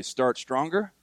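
"Start stronger" said with a rising, asking tune; questioning take. Shown as a demonstration. Congregation repeating the theme like a question, rising. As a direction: ask it, don't state it: "Start stronger". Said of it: "Did you say it like a question?".

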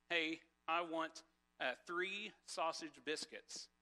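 drawn-out order at the counter, slowed right down; slow, deliberate order. Retold or imitated. Man ordering from a slow cashier, slow and deliberate. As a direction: spell out the order slowly for the cashier. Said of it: "I say to the lady".

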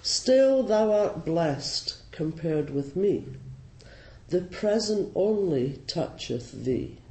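slow, measured verse reading; poem recitation. Acted. Ploughman talking to the mouse, slow poetic recitation. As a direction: recite the verse slowly, drawing out each phrase.

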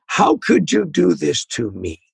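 slow, self-pitying mock complaint; wounded indignation. Boss taking an employee's mistake personally, wounded indignation. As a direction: play the victimized boss, drawing it out. Voicing a manager who feels victimized.

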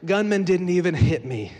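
high, loud, breathless-paced heroic boast; pumped-up bragging, pitched high; boastful action retelling. Acted. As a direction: recount your daring escape like an action hero. Acting out a boastful escape tale.

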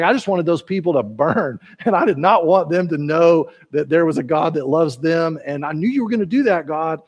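a mild, whiny pout, lightly voiced. Jonah complains to God after Nineveh repents, mildly pouting. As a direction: grumble at God like a sulking prophet. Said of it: "Jonah's response is to pout".

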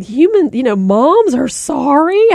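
mock-amazed kid, rising in pitch; imitating a son's astonishment; amazed child. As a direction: stretch it into a disbelieving question. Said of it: "he just looked at me like".

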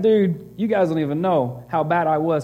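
a hint of Paul, loud and casual; Paul confessing. Pastor voicing Paul to the church, lightly acted and loud. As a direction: toss off Paul's confession with a loud preacher's punch. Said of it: "He's like".

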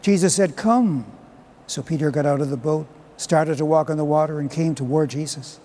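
measured liturgical proclamation; Gospel reading. Acted. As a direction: read scripture aloud to the congregation.

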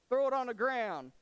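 loud, high, emphatic order; forceful command. Acted. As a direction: call it out as God commanding Moses. God orders Moses, acted.

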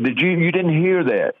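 startled disbelief. Retold or imitated. Startled by a voice others missed.

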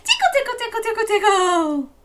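high laughing tickle chant; playful high tickle tickle, laughing; tickly giggle. Shown as a demonstration. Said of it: "And say".

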